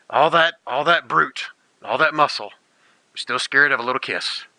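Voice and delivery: slow, drawn-out teasing; mocking tease. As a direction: taunt him slowly about the kiss. NPC teases the shy player.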